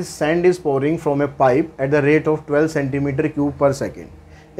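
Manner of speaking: very slow, word by word, for students to copy; dictating the question to students, slow and even; slow dictation read. Shown as a demonstration. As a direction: read it out so the class can write it down. Reads the question slowly.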